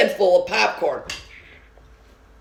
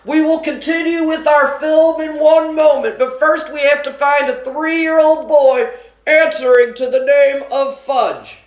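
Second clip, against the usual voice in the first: announcing shout; 9 semitones higher than usual. A narrator's reading. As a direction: call out across the whole theater. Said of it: "He cupped his hands around his mouth and shouted".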